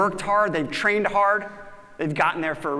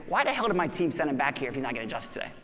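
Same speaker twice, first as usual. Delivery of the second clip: annoyed inner thought; 4 semitones lower, 5 dB quieter, faster than usual. Retold or imitated. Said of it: "the first thing I think is".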